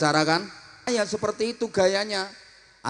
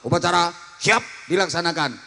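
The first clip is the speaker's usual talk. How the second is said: fast crisp parade report; commander's report; faster than usual. Shown as a demonstration. Student commander reporting at a flag ceremony, brisk.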